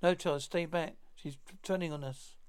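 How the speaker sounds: put-on stiff warning cry, old serial style; stilted old movie melodrama. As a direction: declaim the warning like vintage horror. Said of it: "stilted old movie melodrama dialogue".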